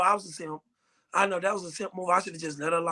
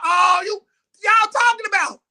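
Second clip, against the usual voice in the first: raised, challenging question; acted confrontation; 6 semitones higher, 4 dB louder than usual. Boyfriend walks up on whispering friends, mock confrontation. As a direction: call them out, pitched up.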